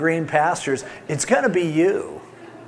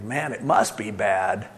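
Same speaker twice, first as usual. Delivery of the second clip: worried thought; 6 semitones lower than usual. Retold or imitated. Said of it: "you think".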